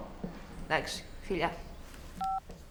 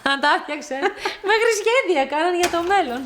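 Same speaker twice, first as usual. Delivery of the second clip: high, loud, amused telling; laughing gossip; 7 semitones higher, 6 dB louder than usual. Acted. Relatives reminiscing over a first flirtation, laughing through the words. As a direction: crack up while sharing the story.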